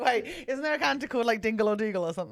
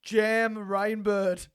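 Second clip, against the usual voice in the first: slow, drawn-out Aussie reading; Australian accent; much slower than usual. Pretend. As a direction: stretch the name in an Australian accent.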